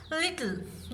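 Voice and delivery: lit-tle said in two parts, slowly; split into syllables. Shown as a demonstration. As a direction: break little into its syllables. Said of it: "देखिए इसको break किया जा सकता है". (little को दो हिस्सों में तोड़ कर, धीरे से)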